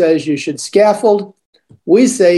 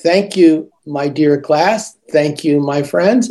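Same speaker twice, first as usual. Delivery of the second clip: friendly thanks; 2 semitones lower, slower than usual. Shown as a demonstration. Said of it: "nice, friendly tone of voice".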